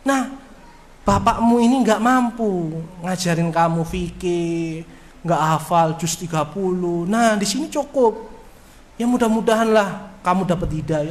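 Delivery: tender fatherly advice. Shown as a demonstration. Father advising son.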